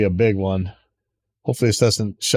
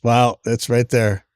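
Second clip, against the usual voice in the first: slow, amazed wow; dawning joy; slower than usual. Real, not acted. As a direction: stretch it out in disbelief. Finds the item in the store.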